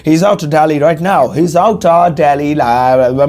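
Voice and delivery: stylish slow drawl of "out of Delhi"; swaggering British take; with style. Shown as a demonstration. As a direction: show off a little, posh-ish contraction. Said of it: "थोड़ा style मार के".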